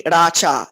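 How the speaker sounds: Sriracha in three full, separate syllables, Sri-ra-cha; separated syllables. Shown as a demonstration. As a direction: demonstrate Sriracha syllable by syllable, "ra" and "cha" fully sounded. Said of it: "it's three full syllables".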